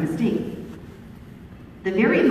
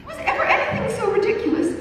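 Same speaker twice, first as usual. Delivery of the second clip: fast, higher, laughing aside; amused disbelief; faster than usual. A narrator's reading. Narrator recalling the absurd stranger, laughing quickly.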